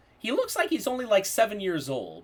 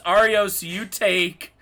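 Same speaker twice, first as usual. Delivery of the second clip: ordinary talk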